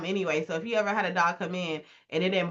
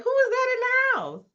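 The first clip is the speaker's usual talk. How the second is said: high, startled squeak; sudden panic at what you see; alarmed surprise; 3 dB louder than usual. Retold or imitated. Couple spotting their real dog outside, high startled voice.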